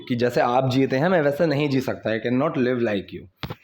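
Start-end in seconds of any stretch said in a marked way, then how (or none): 2.1-3.5 very slow, word by word for learners; slow model reading. Shown as a demonstration. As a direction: spell it out slowly like a teacher. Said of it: "teacher models English sentence". (बहुत धीमे, शब्द-दर-शब्द पढ़ाते हुए)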